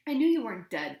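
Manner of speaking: loud, high bellow. A narrator's reading. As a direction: drown her voice out. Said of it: "bellowed Ron".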